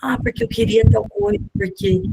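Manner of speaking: put-on high-pitched little kid explaining; child's voice. Child explaining after twenty minutes of crying, high childlike voice. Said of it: "depois de vinte minutos vem e fala".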